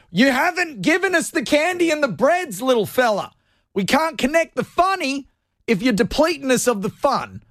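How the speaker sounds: high squeaky inner voice; whiny voice of a tired brain. Pretend. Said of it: "my brain is just like".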